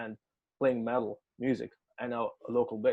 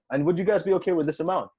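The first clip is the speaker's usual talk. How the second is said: higher, pressing question; insistent retold question; 5 semitones higher, 4 dB louder than usual. Promoter asks the musician about the amount, higher and insistent. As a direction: act out a caller pushing for a yes.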